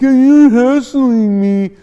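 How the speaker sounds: loud, high, drawn-out mock whine; whiny mock outrage. Corrected youngster complaining to family, loud mock whine. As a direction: wail it like an offended youngster.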